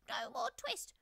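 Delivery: very high, loud squeaky shout; twittering mouse shout. A narrator's reading. Mice shouting at Simpkin all at once, high and loud. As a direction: shout it like tiny defiant mice. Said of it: "shout at once in little twittering voices".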